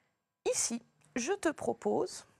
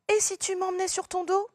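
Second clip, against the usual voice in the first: much higher, eager asking voice; pleading question; 9 semitones higher, 4 dB louder than usual. Shown as a demonstration. Teacher voicing a child asking for a ride, high and pleading. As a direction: beg to be carried, voice lifted high. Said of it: "Une question également".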